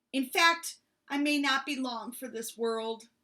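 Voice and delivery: dramatic huffy bear; huffing. Acted. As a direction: huff it out, self-pitying. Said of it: "Bear huffed".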